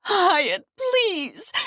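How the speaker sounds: high, loud pleading cry; desperate plea. Acted. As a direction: call him back, begging. Fawn pleads as he leaves.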